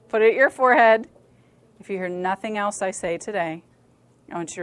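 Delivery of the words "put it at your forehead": much louder repeated order; loud insistence. Real, not acted. Speaker telling reluctant girls to join in, loud insistence. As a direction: push the instruction out loudly to the room.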